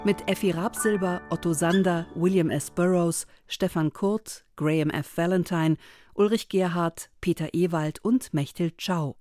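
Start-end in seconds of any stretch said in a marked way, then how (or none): none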